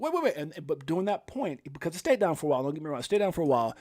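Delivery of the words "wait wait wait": retold alarm. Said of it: "And I was like".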